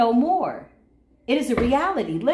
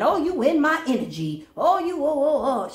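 mock whiny "oh, you in my energy", pitched higher; lightly higher mocking whine; mocking whiny caller; 5 semitones higher than usual. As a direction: mimic a petty hater whining. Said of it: "you sitting over there lying".

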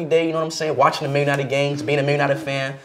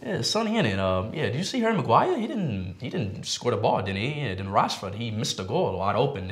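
badly faked Manchester accent; soft, unconvincing Mancunian chat; 4 semitones lower, 7 dB quieter than usual. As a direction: attempt a Manchester accent, trailing lower and quieter. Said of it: "Give me your best Manchester accent".

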